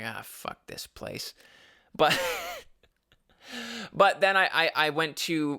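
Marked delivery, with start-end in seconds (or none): 0.0-1.3 whispered, slow curse; muttered. Retold or imitated. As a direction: mutter it under your breath. Leaving the fairground.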